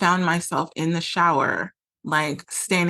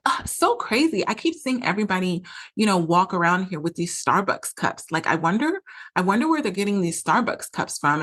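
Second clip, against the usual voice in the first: mock his showy Broadway-style musing; imitating dramatic partner. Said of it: "he was being very loud and dramatic".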